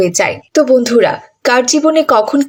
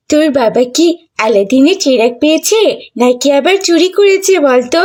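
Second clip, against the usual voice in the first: mocking taunt; 2 semitones higher than usual. Classmate Mili taunting Rafi.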